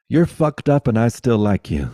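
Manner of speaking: title read through a laugh. Real, not acted. Telling the listeners a friend's book title, laughing.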